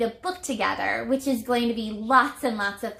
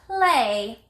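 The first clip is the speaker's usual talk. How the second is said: clear model word; 5 dB louder than usual. Shown as a demonstration. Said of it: "Say that with me".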